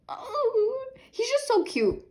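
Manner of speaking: high, tearful coo; soft crying coo. Real, not acted. Fan cooing at a singer's card, tearful and high. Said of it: "for him, I'm just going like".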